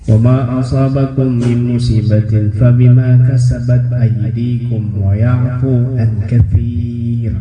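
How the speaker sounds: slow melodic Quranic recitation. Acted. Preacher reciting a Quran verse to the congregation, slow chant. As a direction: chant the verse slowly and reverently.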